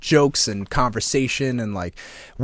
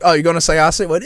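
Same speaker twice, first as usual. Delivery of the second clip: mocking wife; 5 semitones higher, 7 dB louder than usual. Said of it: "she'll go to the gym and be like".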